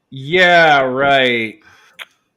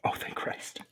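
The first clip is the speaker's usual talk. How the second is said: relieved whisper; 18 dB quieter than usual. Real, not acted. Relief at low difficulty.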